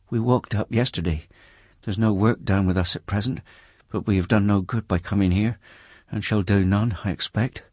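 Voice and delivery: tired country woman, resigned to hard times; brickmaker's wife. Acted. Poor wife telling Bucket why they came, weary.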